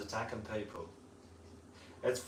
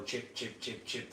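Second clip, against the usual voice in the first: soft, short imitated chirps; evenly spaced quiet chip sounds; baby bird chirp; 7 dB quieter than usual. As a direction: mimic a little chick chipping quietly. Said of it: "That's the baby".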